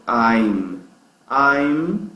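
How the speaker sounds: "I'm" ending with lips fully shut; careful demo of "I'm", mouth closed at the end; closed final M. Shown as a demonstration. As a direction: finish "I'm" on a hummed M. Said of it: "tem que terminar com a boca fechada".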